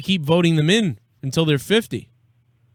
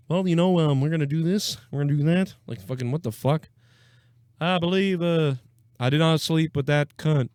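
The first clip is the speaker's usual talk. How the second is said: Clinton impression; 3 dB quieter than usual. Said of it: "I can't do Clinton".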